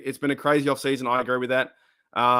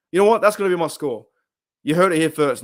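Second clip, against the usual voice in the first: excited; 5 dB louder, faster than usual. Real, not acted. Bold prediction announced.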